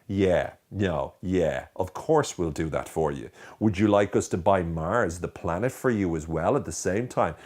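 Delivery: slow, drawn-out mock-helpful sarcasm; sarcastic. Shown as a demonstration. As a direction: offer help slowly, dripping with insincerity. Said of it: "stick a bit of sarcasm in there".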